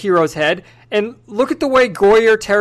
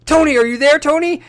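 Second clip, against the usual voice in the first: rising, pleading calls of his name, a touch hammed-up; mock distressed Pepper; 6 semitones higher, 3 dB louder than usual. Pepper losing the connection to Tony, mock distressed calling. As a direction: call out for Tony on a dead phone line, mock panic. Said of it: "the distress in her voice".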